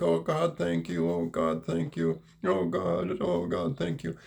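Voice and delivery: lightly voiced choked thanks; imitating a sobbing man. Teller echoing the burly owner's tearful thanks, mildly choked and high. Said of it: "He's crying all over my neck".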